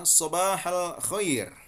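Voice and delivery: "Sobahal Khair" said slowly, high and clear; Saudi pronunciation. Shown as a demonstration. Teacher slowly modelling the Saudi greeting. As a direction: drag out "Sobahal Khair" syllable by syllable. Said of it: "Amiyah Saudi juga sama".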